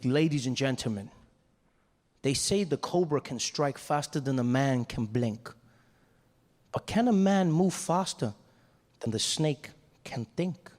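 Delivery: slow, measured performer's address; cool and calm. Retold or imitated. Snake charmer addressing the audience, cool and calm. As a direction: deliver it slowly, with calm showmanship. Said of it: "he was really cool and calm".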